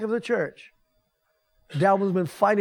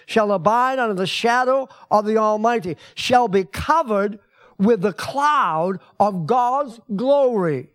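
louder, slowing preaching; preaching at full force, louder; emphatic scripture reading; 4 dB louder than usual. Acted. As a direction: proclaim it, slowing to the end. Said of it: "scripture read with force".

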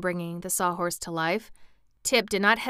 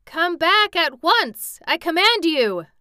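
high, loud, drawn-out shout; urgent, alarmed calling from afar; frightened command; 10 semitones higher, 9 dB louder than usual. A narrator's reading. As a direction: order it back in alarm. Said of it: "cried Tip in a frightened voice".

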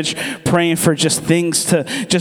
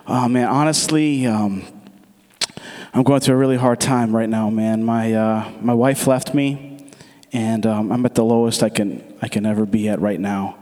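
lower, subdued, understated confession; imitating dejection; 7 semitones lower than usual. Driver confiding that his wife left him, understated dejection. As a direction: voice a man at his lowest, pitch dropped.

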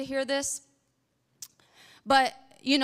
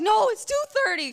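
mock insistence; 9 semitones higher, 5 dB louder than usual. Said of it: "I was like".

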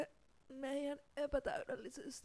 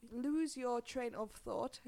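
slowly drawn-out English phrase; slow careful repeat; much slower than usual. Shown as a demonstration. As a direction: say "Lose your train of thought" slowly, word by word. Repeats the phrase after slurring it.

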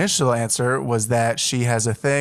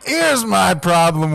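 voice crack retry; 5 semitones higher, 4 dB louder, slower than usual. Real, not acted. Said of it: "let's do that again".

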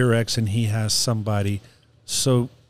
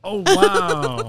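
surprised wow. Real, not acted. Surprised at engagement news.

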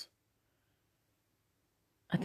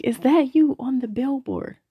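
imitated excited screaming; 9 semitones higher than usual. Friend spots her on a billboard, imitated screaming. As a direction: imitate a friend's astonished cry, pitched way up. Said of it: "she starts screaming".

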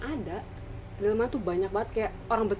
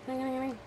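soft bell imitation; 5 semitones higher, 5 dB quieter than usual. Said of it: "Malam pertama cuma bunyi doang".

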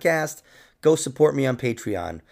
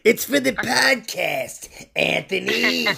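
mock self-scolding; 7 semitones higher, much slower than usual. Mocking himself about second dinner.

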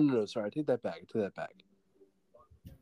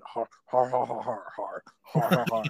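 breathy half-whispered har har; Goat Man laugh. Acted. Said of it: "Goat Man".

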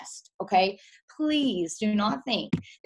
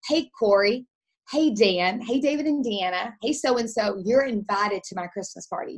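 friendly invite demo. Shown as a demonstration. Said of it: "if you personally go".

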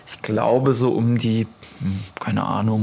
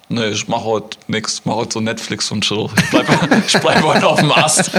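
lazy falcon. Pretend. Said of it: "schwere Kondition heißt".

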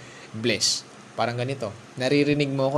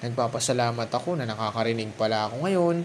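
grateful inner voice; 4 semitones higher than usual. Pretend. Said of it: "I-recognize mo".

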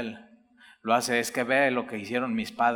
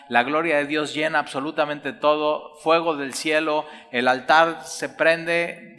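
rising excitement; 4 semitones higher, 5 dB louder than usual. Acted. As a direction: preach it as fire falling from heaven. Preacher describing God's fire falling.

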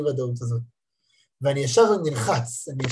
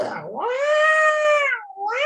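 imitated child crying. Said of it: "והילד בוכה וצורח".

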